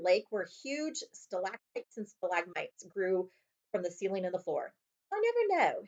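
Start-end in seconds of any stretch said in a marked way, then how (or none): 5.1-5.8 high call over the cart noise. A narrator's reading. Harry calling to Hagrid over the rattling cart, raised voice. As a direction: pitch it up to carry over the rattle. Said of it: "Harry called to Hagrid over the noise".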